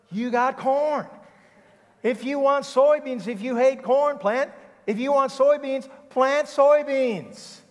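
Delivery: high, loud mock-exasperated outburst; exasperated scolding. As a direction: spell out the obvious at the top of your voice. Acted scolding of the crying farmer.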